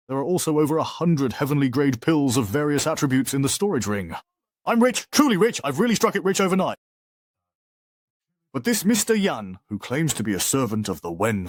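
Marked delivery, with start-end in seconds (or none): 4.7-6.8 giddy, excited outburst; overjoyed at sudden riches; gleeful. Acted.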